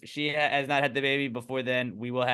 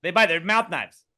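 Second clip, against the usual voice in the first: laughing loud agreement; 10 semitones higher, 11 dB louder than usual. Real, not acted.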